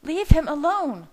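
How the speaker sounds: loud, high-pitched furious shriek. A narrator's reading. Leah steps toward Bella, shrieking loudly. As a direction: shriek it at full anger. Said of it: "she shrieked".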